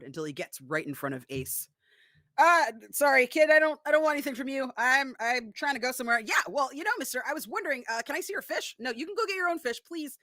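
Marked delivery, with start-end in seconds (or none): 2.4-6.2 a higher, louder, nervous stammer; flustered Ace. Acted. Ace stammers at the pushy kid, higher and flustered. 6.2-8.8 put-on a high, coaxing child voice; wheedling kid. Kid sidles up to Ace and asks for his fish, high and coaxing. 8.8-10.2 a higher, fast, curt brush-off; snappy refusal. Acted. Ace quickly and curtly refuses the kid.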